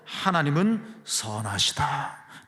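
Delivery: slow, deliberate statement at normal volume; measured declaration. Shown as a demonstration. Preacher answers what we can believe, slow measured declaration. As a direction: state it slowly, stretching the words. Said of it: "따라해볼까요?".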